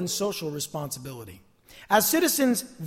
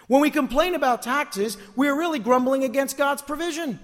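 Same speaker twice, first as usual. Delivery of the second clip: higher-pitched, emphatic pulpit delivery; preaching with raised pitch; forceful preaching; 7 semitones higher, 5 dB louder than usual. Real, not acted. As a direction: press the point home like a preacher.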